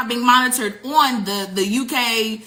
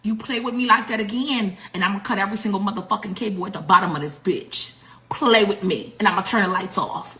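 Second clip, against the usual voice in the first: lightly voiced menacing officer, a bit lower; a hint of a cold threat, pitched down; 5 semitones lower, 4 dB quieter than usual. Officer's threat relayed to America, low and menacing. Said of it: "clears throat and he said make sure my throat is clear".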